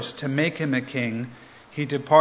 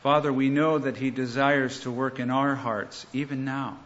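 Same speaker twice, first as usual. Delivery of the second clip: prayer. Real, not acted. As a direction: pray humbly, easing off at the end. Opening prayer continues.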